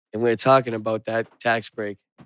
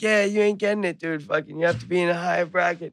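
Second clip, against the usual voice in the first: teasing; 6 semitones higher, faster than usual. Retold or imitated. Teasing friend again.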